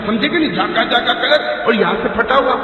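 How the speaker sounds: chuckling through the words; laughing. Real, not acted. Preacher amused, telling of friend's torn jeans, laughing. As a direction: laugh as you describe it.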